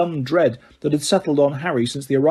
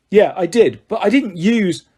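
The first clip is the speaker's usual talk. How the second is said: began angrily; 4 semitones higher than usual. A narrator's reading. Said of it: "Harry began angrily".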